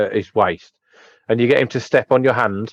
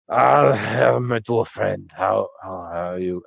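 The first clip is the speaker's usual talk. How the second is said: put-on drunk tavern keeper; 4 semitones lower, slower than usual. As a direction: slur it like a drunk host greeting a dwarf. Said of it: "he looks pretty pissed".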